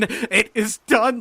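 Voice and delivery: loud, high, very drawn-out shout; slow, ringing cry of triumph; exultant cry. A narrator's reading. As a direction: proclaim victory, stretching every word. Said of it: "I entered crying".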